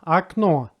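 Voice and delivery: Окно said "ak-NO"; unstressed O as A. Shown as a demonstration. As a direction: say Окно with an A sound first, stressing the end. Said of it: "first syllable has no stress".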